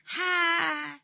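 long, high exhaled "ha"; drawn-out high sighing cry; exasperated sigh. Real, not acted. Host reacting to a gloomy-sounding caller, exasperated sigh.

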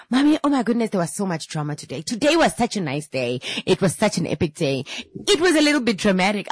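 put-on high, eager little girl voice rushing her news; bubbling over like a kid home from school; excited daughter. Mother imitating her daughter telling school drama, high and eager.

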